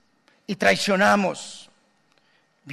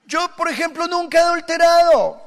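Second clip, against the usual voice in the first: high prim protest, much higher; mock self-righteous churchgoer; 9 semitones higher than usual. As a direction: play the pious denier, pitched way up. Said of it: "usted dirá". (feligrés santurrón, muy agudo)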